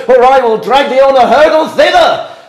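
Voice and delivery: rising fury, rushed; angry tirade. Acted. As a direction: rage at the daughter. Father berates daughter.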